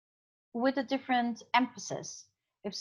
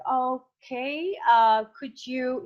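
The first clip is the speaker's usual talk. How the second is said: uncertain; 3 dB louder, much slower than usual. Shown as a demonstration. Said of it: "that also shows that I'm not sure".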